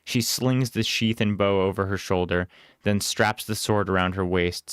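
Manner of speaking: ordinary delivery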